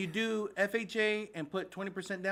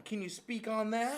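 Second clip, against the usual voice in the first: hushed, whispered question; 2 semitones higher, 3 dB quieter than usual. Real, not acted. Co-host asking about new rule, whispered. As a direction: ask it under your breath.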